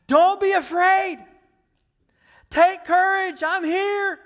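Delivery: high, full-force shout over a storm. Retold or imitated. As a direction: call out loud and high to frightened followers. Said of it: "he is shouting to them".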